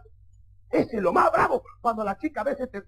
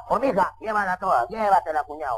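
low, lightly voiced father; a hint of a deadpan father-in-law; father handing over; 4 semitones lower than usual. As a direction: casually urge the suitor to take them. Father eagerly gives away daughter, wife.

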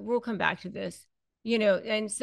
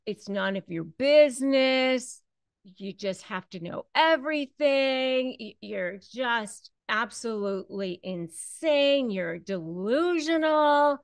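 raging partner; 4 semitones higher, 5 dB louder than usual. Retold or imitated. Narcissist raging at a partner who asks about charges, loud furious rant. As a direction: lash out at the one asking questions. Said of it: "they just flip out on you".

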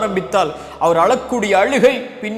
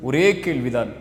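softer, lower, grave closing appeal; hushed earnest plea; 4 semitones lower, 5 dB quieter than usual. Real, not acted. Preacher pleading softly with listeners before the closing prayer. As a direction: draw them in with a quiet, heavy voice.

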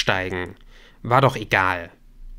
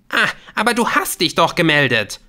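high, loud, scornful comeback; angry hissing retort; 8 semitones higher, 6 dB louder than usual. A narrator's reading. Woman throwing his words back at him, angry retort. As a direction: spit it back angrily. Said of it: "fauchte sie".

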